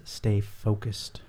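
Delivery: drawn-out motto; slow catchphrase. Retold or imitated. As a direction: say it slowly, like a motto. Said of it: "In the words of Michael Akins".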